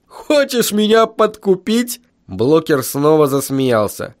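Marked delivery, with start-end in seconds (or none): 0.1-2.0 slow, high-pitched incredulous question; amused incredulity. A narrator's reading. Foreman suspects a bribe from the teacher, amused.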